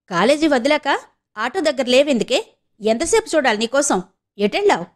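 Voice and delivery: a touch of irritated scolding; lightly voiced angry brother demanding answers. Brother scolds his sister for not waiting, mildly angry. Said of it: "అన్నాడు కోపంగా".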